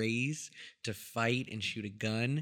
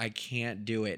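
put-on pleading voice. Retelling a movie scene where a character is pleading: imitating someone pleading. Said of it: "She's pleading".

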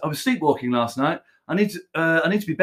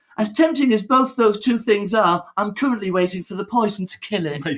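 high, put-on woman's voice; 5 semitones higher than usual. Retelling a woman's reply to an offer, quoting her in higher put-on voice. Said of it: "shall I make it higher voice?".

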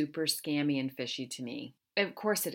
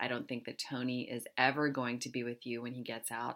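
ordinary delivery

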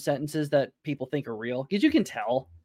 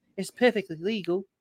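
high-pitched mock Australian accent. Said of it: "That's a good accent".

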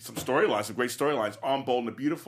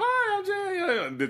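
very high younger voice, before voice change, I'm stretched; 3 dB louder than usual. Retelling how his voice changed in high school: imitating his voice before it changed. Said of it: "my voice changed in high school".

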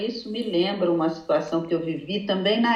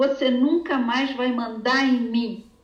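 put-on crying speech, much higher; 3 semitones higher than usual. Retelling what a girl from another class said to her, imitating someone crying.

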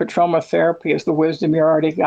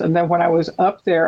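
ordinary talk, nothing marked

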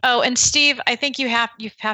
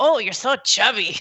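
put-on old grandma voice. Asking who even uses the word chubby, then doing an old grandma voice. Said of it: "That's like what an old grandma".

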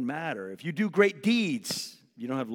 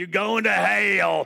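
very loud, rough, high bullhorn preacher bellow; 5 semitones higher, 8 dB louder than usual. Speaker mimics the bullhorn guy on a college campus; imitating a shouting bullhorn guy. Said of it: "shouting death and shouting".

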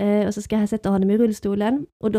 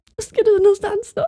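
falsetto, much higher and louder; 11 semitones higher, 4 dB louder than usual. Retelling the question put to him as he sets off: voice rising into falsetto. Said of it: "Jag hör min röst bara gå upp i falsett så här".

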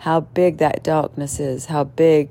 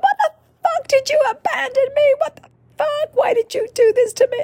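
play-acted, very high shrieking outburst. Retelling a pious woman at her first ceremony, screaming at the medicine: imitating her screaming. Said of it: "she's like".

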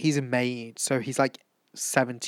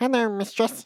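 put-on robot dog voice, much higher pitch; 13 semitones higher than usual. Describing a character's tin dog, doing the K-9 voice. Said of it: "that's such a good impression".

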